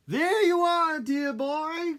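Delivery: high, loud doting granny; grandma voice. Acted.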